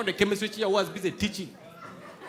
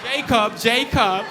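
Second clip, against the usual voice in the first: calling a dog; 5 dB louder, much slower than usual. Retold or imitated. Owner calling her dog.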